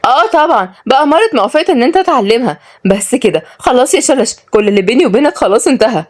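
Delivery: high-pitched, indignant woman; sarcastic jealous anger, breaking it off; angry. Acted. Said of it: "خلصت كلامها بغضب".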